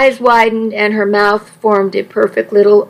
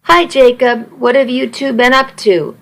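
flirty voice; 3 semitones higher than usual. Acted. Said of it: "flirty, sexy voice".

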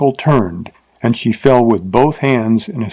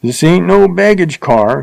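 higher, grumbling coarse man, lightly voiced; grumbling rider; 6 semitones higher than usual. A narrator's reading. Rider grumbles at the teacher's suitcase, mild grumble. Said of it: "he grumbled".

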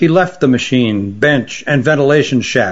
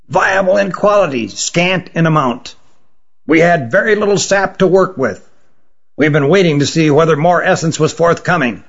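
severe tone. Acted. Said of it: "spoke with a severe tone".

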